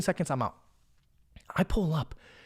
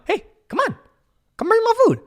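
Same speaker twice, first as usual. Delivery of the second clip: farmer calling over; 4 dB louder than usual. Retold or imitated. Farmer beckons the trapped driver.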